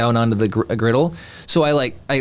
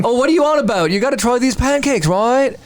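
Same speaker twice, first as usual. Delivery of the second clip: higher, hammed-up fake Australian accent; bad Australian accent; 11 semitones higher than usual. Defending his impression to co-hosts, bad Australian accent. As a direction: overdo a failed Australian accent. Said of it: "I can't do Australian accents".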